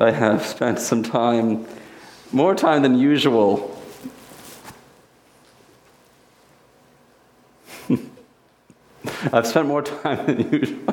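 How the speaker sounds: slow, speaking through bursts of laughter. A speaker starting a talk to an audience, laughing while speaking. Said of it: "I'm sorry that I'm laughing".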